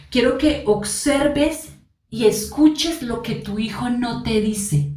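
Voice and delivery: slow, deliberate "observes" and "escuches"; slow down and lay each word down; slow emphasis. Shown as a demonstration. Coach telling parents to watch their child, slowly and deliberately. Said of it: "te lo voy a repetir".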